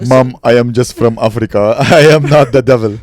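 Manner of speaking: hammed-up protest from an accused stranger; African man protesting. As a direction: plead innocence in an exaggerated put-on voice. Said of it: "Just a black guy".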